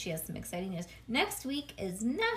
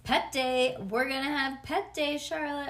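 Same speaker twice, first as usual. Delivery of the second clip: hollering; 3 semitones higher, 3 dB louder than usual. Acted. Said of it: "I hollered".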